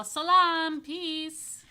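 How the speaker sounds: high, loud greeting call. A narrator's reading. Fatima greets Yafa, calling out loud and high. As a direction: call it out across the way. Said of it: "she would wave and call".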